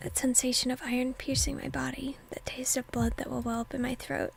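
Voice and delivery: hushed whisper narrating the scene; whispered reading. Acted. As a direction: breathe the story out in a whisper.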